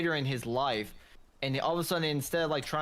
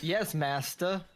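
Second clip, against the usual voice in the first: servile slave; slower than usual. Acted.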